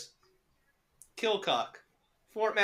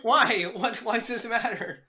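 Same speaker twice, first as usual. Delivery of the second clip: higher, defensive challenge; testy anger; 4 semitones higher than usual. Real, not acted. Co-host challenged on where he lived, testy and defensive. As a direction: push back with mild irritation. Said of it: "Thank you for dropping the anger".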